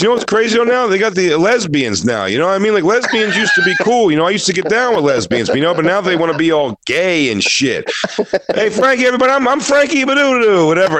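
high, hyped-up open-mic rant; bombing comic. Retold or imitated. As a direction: imitate a hack comedian overselling weak material. Imitating the bombing comic's set.

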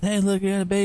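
light, high, girly imitation of the actress; a lightly voiced mock Shannon Elizabeth line; Shannon Elizabeth impression. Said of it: "They did the Shannon Elizabeth".

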